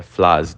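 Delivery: "Frase" said as "flaze", r swapped for l; mock Cebolinha lisp on "Frase". Shown as a demonstration. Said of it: "Tô igual cebolinha aqui".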